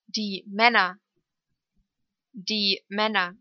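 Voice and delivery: short ä in "Männer". Shown as a demonstration. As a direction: keep the ä of "Männer" brief. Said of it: "Kurz ausgesprochen".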